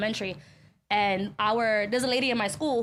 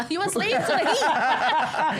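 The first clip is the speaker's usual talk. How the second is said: drawn-out tease; 3 dB louder, much slower than usual. Acted. Teasing friend about hot sweater.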